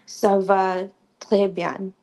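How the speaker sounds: "Ça va très bien" spoken slowly, each word clearly separated; slow it down so learners hear "très"; slow demo. Shown as a demonstration. Teaching a class, a slow clear model phrase. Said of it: "So it's T R E S".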